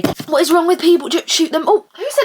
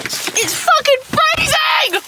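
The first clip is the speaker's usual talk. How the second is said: cold outburst; much slower than usual. Real, not acted. Stepping outside into cold.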